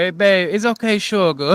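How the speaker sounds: put-on loud, drawn-out Cajun accent. Imitating a Cajun uncle's sayings: imitating uncle's Cajun accent. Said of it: "I can't do his accent".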